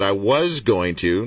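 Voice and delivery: "was" drawn out and pushed up in pitch; stress on WAS. Real, not acted. Host flags a dropped plan to his guest, stress on "was". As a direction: lean on "was" to mark the past tense. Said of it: "catch the past tense there".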